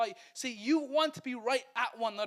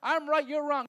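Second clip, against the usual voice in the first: louder, higher, petty I'm right; a petty spouse, louder and higher; petty insistence; 6 semitones higher, 9 dB louder than usual. Pretend. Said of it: "We go".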